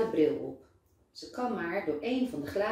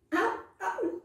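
high mock ouch through a laugh; doctor jokingly crying out at the girl's firm handshake; 13 semitones higher than usual. A narrator's reading. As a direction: pretend the squeeze hurts, laughing. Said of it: "roept de dokter lachend".

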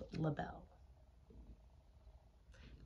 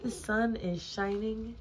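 raised, bright-pitched storybook call; higher, eager calling voice; crying out; 5 semitones higher, 4 dB louder than usual. A narrator's reading. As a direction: call the news to a sleeper. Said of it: "cried Frog".

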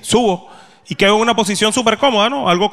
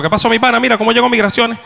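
rapid Venezuelan slang; 5 semitones higher, faster than usual. Shown as a demonstration. What he really said to the vendor, fast Venezuelan slang. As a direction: rattle it off quick and higher, "mi pana" run together. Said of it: "A una velocidad increíble".

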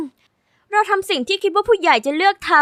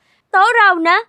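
loud, higher claim on the table; indignant shout; 4 semitones higher, 4 dB louder, much slower than usual. Acted. Kid shouting at rivals that this table is theirs. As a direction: snap it out, this is ours. Kids fight over restaurant table.

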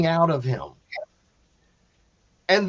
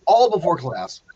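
laughing repeat. Real, not acted.

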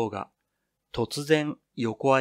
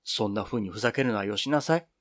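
scolding; 3 semitones lower, 4 dB quieter than usual. Acted. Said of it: "ピロちゃんがたしなめる".

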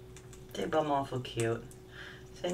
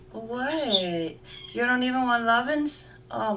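higher, louder mock shock; higher, louder playful surprise at the bird; 8 semitones higher, 5 dB louder, slower than usual. Real, not acted. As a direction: act offended that he refuses. Bird refuses petting.

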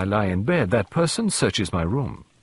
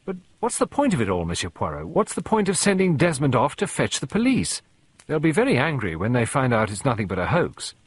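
harsh; 3 semitones higher than usual. Acted. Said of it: "Sarah said in a harsh voice".

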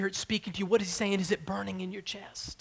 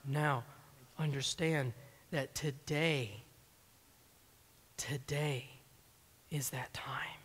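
lower, slow, soft words that fade to a breath; hushed, fading to a whisper; 6 semitones lower, 8 dB quieter, slower than usual. Real, not acted. A preacher hushing the congregation, fading to a whisper. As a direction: draw them in, then let it die away. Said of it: "hushed, fading to whisper".

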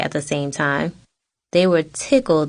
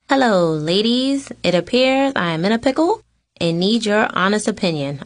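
mock formal; 4 semitones higher than usual. Mock formal greeting to family.

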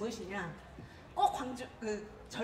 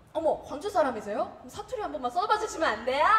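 Seoul coworker; 3 semitones higher, 4 dB louder, faster than usual. Retold or imitated. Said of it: "제가 서울서 동료가".

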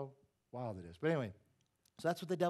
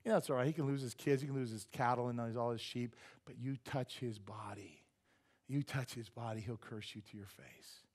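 sly Satan voice; 3 semitones lower than usual. Retold or imitated. Satan goading God about Job, low and sly. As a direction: whisper the temptation slyly. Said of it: "He goes".

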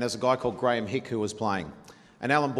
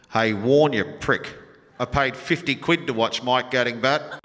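heckler yelling; 3 dB louder than usual. Retold or imitated. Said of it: "some guy at the back of the stands just says".

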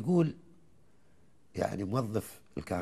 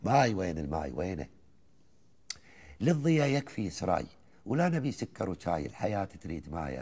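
chanted Gulf verse, rising and falling lines; poem recitation. Acted. Host listens as he recites the old poem, measured and rhythmic. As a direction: recite it like a folk poet to the host.

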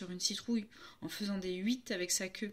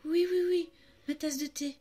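voix douce; 5 semitones higher, 3 dB louder than usual. Acted. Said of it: "elle dit d'une voix très douce".

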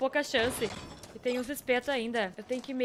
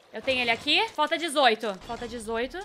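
usual speaking voice

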